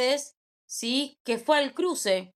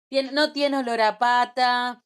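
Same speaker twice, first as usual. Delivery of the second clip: lovestruck gushing; 3 dB louder than usual. Retold or imitated. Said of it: "Es como cuando decimos".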